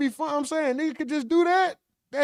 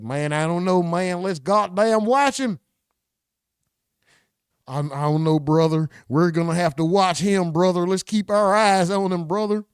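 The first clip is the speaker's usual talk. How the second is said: put-on backwoods white boy; 6 semitones lower than usual. Streamer voicing the white guy next to him, lower country voice. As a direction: play the redneck buddy beside him. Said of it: "with a backwoods white boy".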